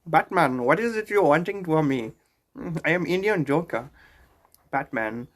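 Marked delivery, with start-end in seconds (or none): 0.1-3.9 lightly voiced Indian-accented Joker; a hint of an Indian accent as the Joker; understated Indian-accent villain. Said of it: "do an Indian accent as a Joker".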